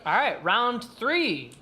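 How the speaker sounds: slow drawn-out round call; booming fighting game announcer. Acted. Host announces round three.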